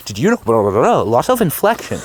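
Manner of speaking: lightly hammed-up advert read with lots of inflection; a hint of a TV ad announcer; mock ad voice. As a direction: parody a pushy commercial, bouncy tune. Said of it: "it's not like an advertisement where".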